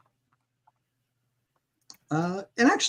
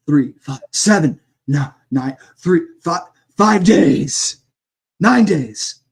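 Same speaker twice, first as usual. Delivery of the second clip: booming corpse voice; 4 semitones higher, 10 dB louder, slower than usual. Acted. Corpse speaks numbers under spell.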